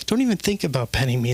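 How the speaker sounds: snooty cat. Retold or imitated. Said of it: "the cat says".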